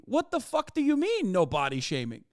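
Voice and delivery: what the hell do you mean, up high; real exasperated disbelief; incredulous outburst. Real, not acted. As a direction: pitch flies way up in disbelief. Outraged at hypocrisy.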